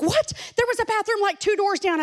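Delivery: high, loud incredulous outburst; mock-appalled, pitch jumping up on the first word; shocked disbelief. Friend hearing who used their bathroom, shocked disbelief.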